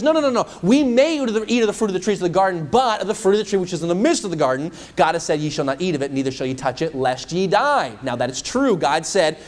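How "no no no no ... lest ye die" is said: Eve's eager reply. Acted. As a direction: correct the serpent eagerly. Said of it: "And she says".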